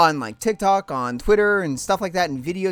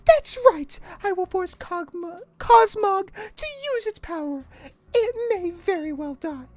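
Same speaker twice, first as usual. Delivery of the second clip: haughty high mother; 12 semitones higher than usual. Acted. Mother Lusamine scorning Lily, high and haughty. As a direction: look down on her daughter.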